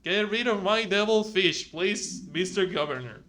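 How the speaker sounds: attempted Southern accent, tailing off at the end. Postscript to the governor about the devil fish, Southern accent. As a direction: plead in an amateur Southern accent. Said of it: "I tried to do a southern accent".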